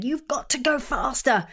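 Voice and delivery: lightly voiced tyrant part urging speed; mock pushy ego. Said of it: "is now shouting on their throne".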